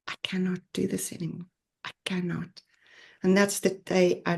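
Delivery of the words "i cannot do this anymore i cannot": hushed and fast, sinking to a breathy whisper; despairing inner thought. Retold or imitated. Remembering the day she decided to leave, hushed despair. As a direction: let it slip out like giving up. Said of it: "And I thought".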